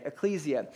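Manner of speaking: "Ecclesia" as eh-KLEE-zee-uh, stress on KLEE; Greek word said out. Shown as a demonstration. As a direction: teach "Ecclesia": eh-KLEE-zee-uh, clear and even. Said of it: "You'll learn some Greek today".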